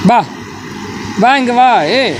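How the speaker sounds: high sing-song coaxing. Real, not acted. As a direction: coax the dog sweetly. Coaxing the dog.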